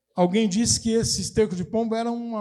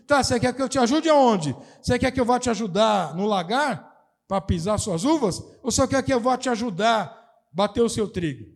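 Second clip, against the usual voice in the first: ironic king; 3 semitones higher than usual. Retold or imitated. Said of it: "É uma ironia".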